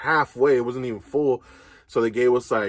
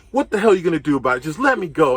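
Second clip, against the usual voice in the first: mock angry retort; 3 semitones higher, faster than usual. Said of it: "I'm just getting crazy with them".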